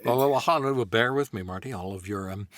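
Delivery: halting Goldblum Doc, slowing at the end; a stammering scientist taking charge. Acted. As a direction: Doc calming Marty, halting. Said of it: "Doc Brown ... Jeff Goldblum".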